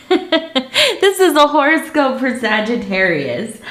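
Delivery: just stopped crying, still wobbly; after crying. Real, not acted. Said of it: "I've been crying a little bit".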